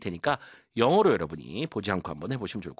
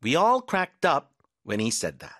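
slow repeat; 3 semitones higher, much slower than usual. Shown as a demonstration. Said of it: "한 번 더".

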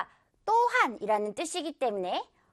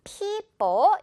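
people with a strong, drawn-out first syllable; stress on first syllable; 6 semitones higher, 3 dB louder than usual. Shown as a demonstration. Teacher shows learners the strong first syllable, stressed people. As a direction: hit the start of people hard, let the end drop. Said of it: "이렇게 강하게".

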